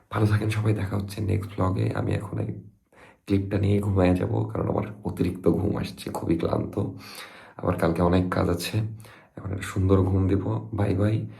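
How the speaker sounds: sleepy, soft and low; drowsy mumble, nearly asleep; nodding off. Real, not acted. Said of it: "কারণ আমি ঘুমে ঢলে পড়ছি".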